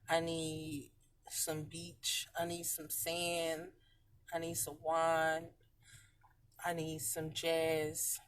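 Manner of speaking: dreamy. Real, not acted. Dreamy list of wishes.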